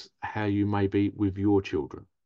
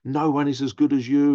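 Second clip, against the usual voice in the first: imitated pushy parent; 3 semitones higher, 4 dB louder than usual. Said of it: "You know".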